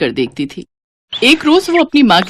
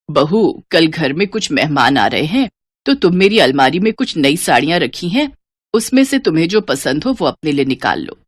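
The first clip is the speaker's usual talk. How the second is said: lower, measured elder voice; mother-in-law; 4 semitones lower than usual. Acted. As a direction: instruct the new bride. (सास की भारी आवाज़)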